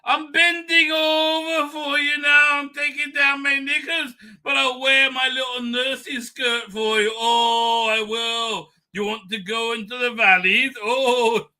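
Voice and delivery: high-pitched hammed-up parody of the protester; mocking impression. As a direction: coo it back to him mockingly. Mocking the marcher clip.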